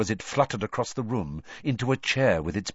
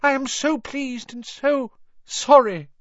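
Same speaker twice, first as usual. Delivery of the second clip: gasping; 6 dB louder than usual. A narrator's reading. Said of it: "gasped the man on the floor".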